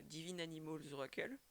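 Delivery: English title said with a heavy French accent; botched English accent. Real, not acted. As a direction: read the English name in clumsy French-accented English. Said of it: "mon accent anglais est flingué".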